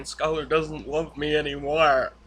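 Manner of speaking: hammed-up tearful husband pleading; mock crying Walt. Walt to Hank, imitating his crying confession, mock sobbing. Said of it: "Hank was so uncomfortable with Walt crying".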